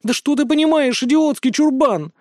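high, loud crying shout; sobbing girl yelling an insult at him; tearful outburst. A narrator's reading. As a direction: explode at him through sobs. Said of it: "воскликнула Злотникова и, разревевшись".

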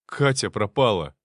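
exhaled, shaken blurt; breathless. Acted. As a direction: breathe it out in shock. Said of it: "выдохнул он".

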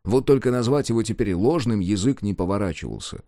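ordinary delivery, nothing marked

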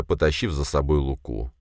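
ordinary delivery

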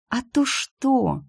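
high, very slow ghostly question; rustling shade. A narrator's reading. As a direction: rustle it out slowly, like a shadow. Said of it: "прошелестела тень".

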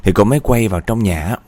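lively spooky storyteller; ghost story narration. A narrator's reading. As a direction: tell it like a suspenseful ghost tale.

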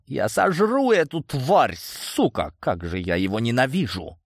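raging. A narrator's reading. Villain raging after throwing his phone at the wall, hateful. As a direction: spit out the hatred.

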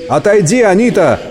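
high urgent command; крик. A narrator's reading. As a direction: call out a warning order, pitch well up. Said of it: "крикнул Хаттерит". (высокий повелительный окрик)

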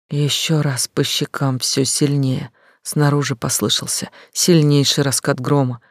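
ordinary delivery

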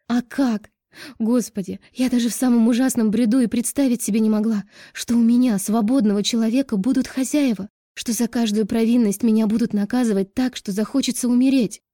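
desperate outcry; crying out. A narrator's reading. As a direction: let it spill over into a shout. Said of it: "Даша выкрикнула последние слова".

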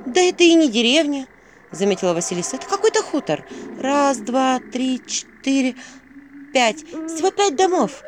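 put-on high, bright-eyed girl counting houses; young heroine voice. A narrator's reading. Vasilisa counting the houses to the owl, high young voice.

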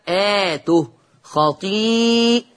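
آته and خطيئاته with the ā after the hamza held long; stretched badal. Shown as a demonstration. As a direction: draw out the ā of آته and the vowels of خطيئاته. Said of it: "مد بدل". (آته، خطيئاته بمدّ البدل)

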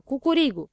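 high, loud acted cock-a-doodle-doo; shouted rooster crow. A narrator's reading. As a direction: crow like someone clowning as a rooster. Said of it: "Cineva strigă". (cucurigu strigat, în joacă)

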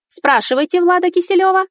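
high electronic robot voice. Acted. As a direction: speak like a cold robot. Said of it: "электронный голос робота".

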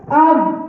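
أب said slowly with a heavy emphatic ض; dad sound demo. Shown as a demonstration. Teacher showing students how ض sounds in أب. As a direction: hold ض briefly, then close. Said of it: "لما اجي اقول مثلًا".

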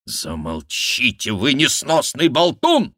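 loud, high rebuke; king shouting. Acted. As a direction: snap at the babbling jester. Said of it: "прикрикнул на шута король". (окрик короля на шута)

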